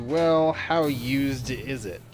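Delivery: wry question. Retold or imitated. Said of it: "I would tell you".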